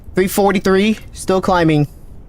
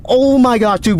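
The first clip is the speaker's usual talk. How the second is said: excited; 4 semitones higher than usual. Real, not acted. New personal best.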